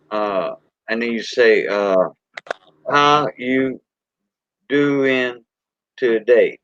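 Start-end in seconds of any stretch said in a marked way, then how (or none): 2.9-6.6 syllable count. Shown as a demonstration. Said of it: "That's six".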